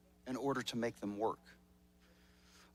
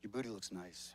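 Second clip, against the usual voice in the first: softer, lower line through a laugh; softer mock grudging compliment; 7 semitones lower, 10 dB quieter than usual. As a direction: toss off a cheeky compliment laughing. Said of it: "I'm just like".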